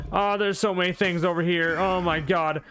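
high-pitched, real mounting panic; freaking out. Real, not acted. Player fleeing too many things over here, freaking out. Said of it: "I am freaking out".

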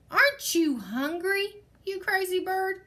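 lightly wailed complaint; mild wail. A narrator's reading. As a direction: plead it a little desperately. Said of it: "wailed Don Pepe".

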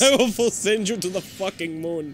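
slow, laughing, mock menace; laughing mock threat. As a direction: laugh through a bigger threat.

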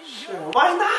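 put-on Asian accent. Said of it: "in your Asian accent".

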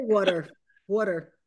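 "Water" with an open aw and a clear t sound, waw-ter; plain water. Shown as a demonstration. Director answering the Philly talk with her own water. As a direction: say "water" the standard way, aw vowel, plainly falling. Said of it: "I say water".

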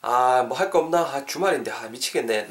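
idle, sighing mutter of boredom; bored grumbling. Acted. Teacher acting bored at the weekend, sighing grumble.

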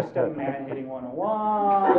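mock Italian accent. Law professor joking about students' theory, mock Italian accent. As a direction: put on a playful Italian accent. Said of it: "like, an Italian accent".

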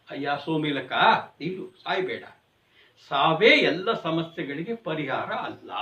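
soft, low-voiced heavenly man soothing a desperate weaver; calm divine being. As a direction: gently hold him back from despair. Descending divine being speaks.

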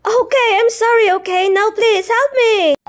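fast, high, frantic apology; panicked plea. Acted. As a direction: beg for help in a rush.

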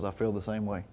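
hushed imitation of God's whisper; retold little whisper. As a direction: quote it low and soft, as a gentle whisper from God. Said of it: "God does his little whisper".

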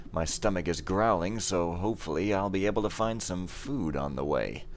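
measured in-character narration; story narration. Acted. Game hero plans his next move, measured narration. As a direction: read it as a composed storyteller. Reads the mission briefing in character.

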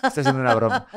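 high, laughing admission. Real, not acted. Son admitting to his mother it was a joke, laughing. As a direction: giggle out the confession.

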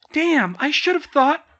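loud, high exclamation of dismay; self-directed curse. A narrator's reading. Girl realises her own mistake, loud high curse. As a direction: curse yourself at full voice. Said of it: "she cursed her short-sightedness".

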